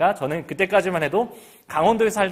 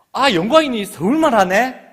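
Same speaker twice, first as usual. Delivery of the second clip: put-on high, louder amazed Gyeongsang kids; surprised classmates; 7 semitones higher, 6 dB louder than usual. Classmates reacting to the new boy's Seoul speech, amazed. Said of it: "아이들이 모두 저를 쳐다보는 겁니다".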